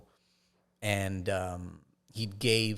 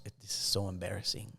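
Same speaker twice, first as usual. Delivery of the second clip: sad mom; 5 dB quieter than usual. Retold or imitated. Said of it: "she's just crying".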